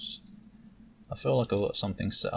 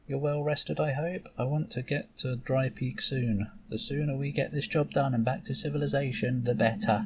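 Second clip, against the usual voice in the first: higher, brisk teacher voice; impatient mentor; 4 semitones higher than usual. Acted. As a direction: hurry the apprentice along. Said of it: "Shanti looks impatient to get going".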